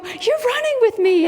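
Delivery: put-on very high, gushing kid-directed voice; delighted talk to toddler. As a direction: marvel at a little kid. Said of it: "And I go".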